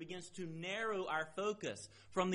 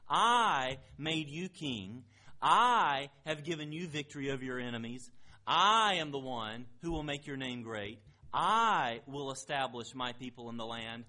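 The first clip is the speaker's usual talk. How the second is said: emphatic; 4 semitones lower, 4 dB louder than usual. Acted. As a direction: proclaim each I statement with weight. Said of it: "He, he expresses it emphatically".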